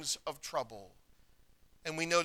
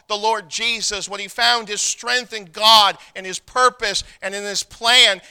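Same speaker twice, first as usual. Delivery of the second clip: preaching at full force; 7 dB louder than usual. Acted. Preacher building to climax.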